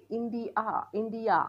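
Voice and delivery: इंडिया ending on a clear "yaa"; final A as AA. Shown as a demonstration. Teacher showing students A without a vowel sign, clear final vowel. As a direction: draw out the last vowel of इंडिया. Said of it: "एचा उच्चार आ असा होतो".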